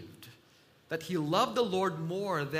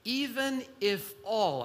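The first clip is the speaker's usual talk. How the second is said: "all" drawn out for emphasis; stress on ALL; 3 semitones higher, 3 dB louder than usual. Shown as a demonstration. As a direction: lean firmly on the word "all". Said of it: "I want to emphasize the word all".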